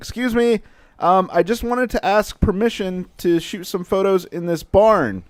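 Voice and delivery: play-acted yell, pitched way up. Retelling asking a woman on her porch for permission: imitating own past yelling. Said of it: "I was, like, yelling".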